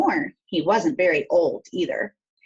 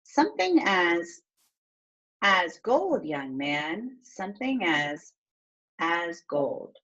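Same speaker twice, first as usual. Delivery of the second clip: slow, searching read; slower than usual. Shown as a demonstration. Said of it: "see if I can figure it out when I skip it".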